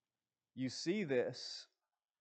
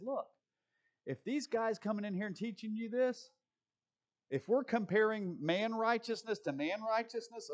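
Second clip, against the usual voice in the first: voicing Paul; 3 semitones higher than usual. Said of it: "he says".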